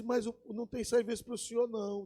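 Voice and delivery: soft, high, quick gatekeeper; thin high voice. Acted. Gatekeeper turning the cowboy away, thin high voice. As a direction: turn him away in a small high voice. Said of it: "esse camarada fala fino".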